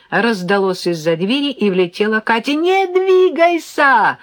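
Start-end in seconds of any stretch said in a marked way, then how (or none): 2.5-4.2 much higher, loud, drawn-out yell. A narrator's reading. Brother warning mother before she sits, loud yell. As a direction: yell to freeze her in place. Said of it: "завопил Серёжка".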